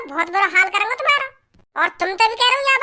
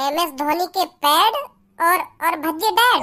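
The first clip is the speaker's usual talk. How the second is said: slow, low, questioning repeat; puzzled echo; 4 semitones lower, slower than usual. Acted. Bhajji repeats the gangster's catchphrase back, puzzled and questioning. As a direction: echo the dialogue back in bafflement. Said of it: "का, का बोल गो?".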